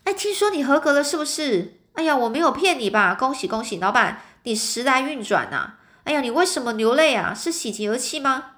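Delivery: high, eager congratulating chatter; a clerk calling out his excited congratulations. Retold or imitated. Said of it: "他高声说".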